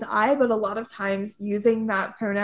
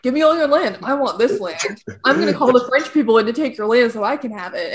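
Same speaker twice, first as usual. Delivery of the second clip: demanding Pope; 5 dB louder than usual. Acted. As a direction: act a pushy pope laying claim. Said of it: "the Pope was just like".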